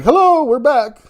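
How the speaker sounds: high, sing-out mock greeting; imitating someone announcing a playful comeback; cheeky returning sellers. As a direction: pop up with a put-on hello. Voicing sellers popping their heads up.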